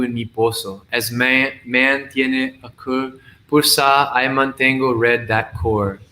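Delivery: measured reading of a multilingual poem; poetry recitation. Acted. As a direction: recite it line by line, lingering on some phrases.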